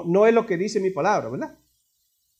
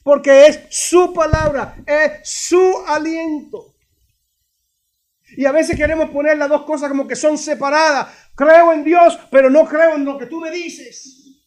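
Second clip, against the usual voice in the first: raised pitch, weighty stressed words; emphatic preaching; 7 semitones higher, 5 dB louder, slower than usual. Real, not acted. Preacher to church on believing God's word, emphatic preaching. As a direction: press the point home to the congregation.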